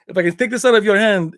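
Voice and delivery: mock movie tough guy laying down a bet; Van Damme impression. Retelling the coin bet in the bar, light Van Damme impression. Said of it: "He goes, uh".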